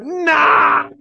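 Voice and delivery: one high, loud shouted no; screaming. Retold or imitated. Heckler rejects the preacher's address, sharp shout. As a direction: cut him off with a yell. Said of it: "He's screaming at me".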